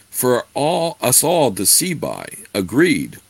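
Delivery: lightly voiced wise druid; mystical druid voice. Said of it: "said the druid".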